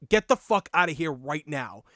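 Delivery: put-on Boston accent. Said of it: "the Boston came out of me".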